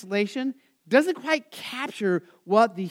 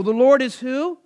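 louder and higher, full of confidence and wonder; confident marvel; 5 semitones higher, 6 dB louder than usual. Shown as a demonstration. Teacher shows the class how to say it, with confident marvel. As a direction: ring it out with comfort and marvel. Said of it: "you should say that with confidence and comfort and marvel".

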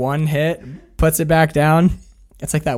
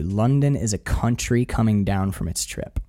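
soft monologue; 5 semitones lower, 6 dB quieter than usual. Retold or imitated. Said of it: "he says this".

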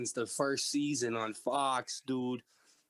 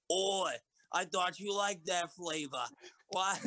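put-on British accent; 3 semitones higher than usual. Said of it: "British accent like Gordon Ramsay".

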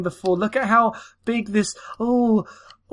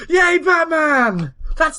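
put-on excited kid fan; 7 semitones higher, much slower than usual. Gushing kid fan of Batman.

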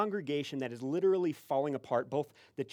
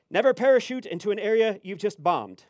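loud, raised pronouncement; super serious stranger; 5 semitones higher, 8 dB louder than usual. Retold or imitated. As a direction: declare the cliché like profound truth. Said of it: "super serious".

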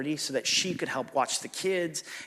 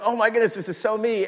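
excited recognition; 7 semitones higher, 5 dB louder than usual. Retold or imitated. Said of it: "I was like".

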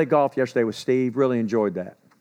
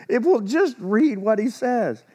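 slow, drawn-out sarcastic jab after a laugh; teasing the flock: just read what he says; sarcastic, slower; 7 semitones higher than usual. Real, not acted. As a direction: spell it out slowly with a sarcastic edge. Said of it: "I'm not gonna be sarcastic".

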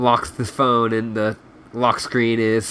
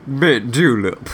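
Southern accent warm-up. Shown as a demonstration. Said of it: "in a southern accent".

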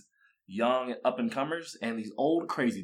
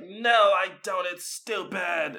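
mock girlfriend refusal; 7 semitones higher, 5 dB louder, much slower than usual. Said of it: "She's like".

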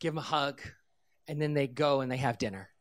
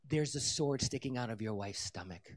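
confidential aside; 4 semitones lower, 5 dB quieter than usual. Retold or imitated. Leans over, tells husband confidentially.

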